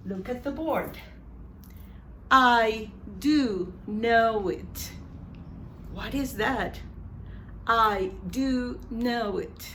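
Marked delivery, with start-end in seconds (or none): 2.3-4.9 slow, stretched DO in "I do know it"; emphatic DO. Shown as a demonstration. Teacher models emphatic do at the board, DO stretched slowly. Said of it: "That's for emphasis". 7.7-9.7 slow line with weight on DO; emphatic DO. Shown as a demonstration. Teacher repeats the board example, DO slow and weighted. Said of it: "That's for emphasis".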